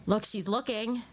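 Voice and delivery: normal talking voice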